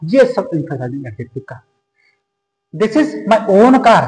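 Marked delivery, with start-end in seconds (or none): 2.7-4.0 "my own" said very slowly and firmly; slow classroom stress on "my own". Shown as a demonstration. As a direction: press "my own" as if proving ownership. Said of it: "इस बात को जोर दे रहा है".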